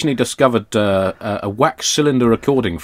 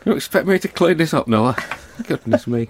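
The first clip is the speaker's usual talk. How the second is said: Mrs Noah; 3 semitones higher than usual. Acted. Mock Mrs Noah scolding voice.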